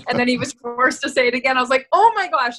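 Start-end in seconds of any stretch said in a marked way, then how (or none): 1.9-2.6 shocked gasp. Retold or imitated. Her shocked reaction on set.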